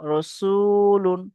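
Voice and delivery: slow, long-held chanted reading of the word; drawn-out recitation. Shown as a demonstration. Teacher chanting a word slowly for students. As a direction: stretch each syllable like Quran recitation. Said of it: "তারপর উচ্চারণ করে দিচ্ছি".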